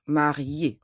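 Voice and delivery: "Marié" ending on a clear "ay"; silent final E. Shown as a demonstration. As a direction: end "Marié" on the accented E, nothing after. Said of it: "The final E remains silent".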